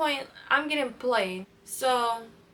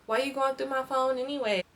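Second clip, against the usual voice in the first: put-on boyfriend's deflection; 4 semitones higher, 4 dB louder than usual. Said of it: "he gonna hit me with the".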